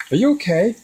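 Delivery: high-pitched imitation of a worried mom; mock alarm, pitched well up. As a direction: mimic a concerned wife checking on him. Voices worried mom in retold story.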